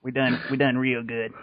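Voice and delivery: slow put-on redneck drawl. Podcaster agreeing they done good, redneck voice. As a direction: play a redneck, taking it slowly. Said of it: "to my redneck voice".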